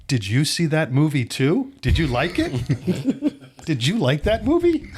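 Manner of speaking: high, giggly mom asking; excited fan mom giggling at the famous director; starstruck mom. Retold or imitated. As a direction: gush through laughter at the director.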